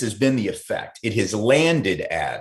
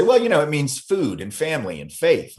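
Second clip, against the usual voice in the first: Italian interviewee quote; 6 semitones higher than usual. Retold or imitated. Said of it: "they would say".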